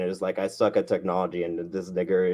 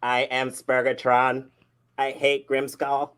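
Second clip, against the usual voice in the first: robot voice; 4 semitones higher, slower than usual. Pretend. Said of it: "you're still roboting there, Spurgatron".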